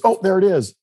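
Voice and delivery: mildly surprised, pitch jumps up; sudden discovery. Retold or imitated. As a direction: imitate someone suddenly spotting it. Wife suddenly spots the sign.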